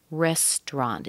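"restaurant" said as REST-rant; two-syllable restaurant. Shown as a demonstration. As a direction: swallow the "au" in "restaurant". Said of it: "It sounds like R E S T R A N T".

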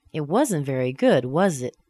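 "was it" falling at the end; stressed statement, falling "was it"; seeking agreement. Shown as a demonstration. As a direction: invite agreement, let "was it" drop. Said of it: "I want you to agree with me".

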